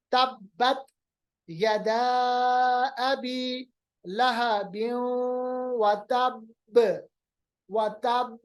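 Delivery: slow measured recitation, तब ending in a big bounced b; greater qalqalah. Shown as a demonstration. Teacher recites the verse, तब with a very big qalqalah. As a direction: stretch the vowels, pause, strongly echo the b of तब. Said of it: "देखिए कितना मैंने कलकला किया".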